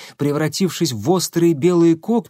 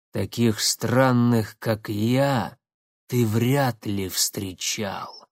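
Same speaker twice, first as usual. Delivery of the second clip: медленно, тихо, с рыком; говорит и рычит одновременно; полурык; 2 semitones lower, 3 dB quieter, much slower than usual. Acted. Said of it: "наполовину произнёс, наполовину прорычал". (полуговор-полурык)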